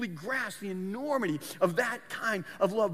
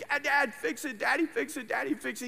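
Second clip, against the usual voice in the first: a higher, lightly voiced pleading boy; crying little boy; 4 semitones higher than usual. Boy begging his dad to fix the tablet, mock-tearful plea. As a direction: plead like a tearful eight-year-old, not really sobbing. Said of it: "he goes crying to his dad".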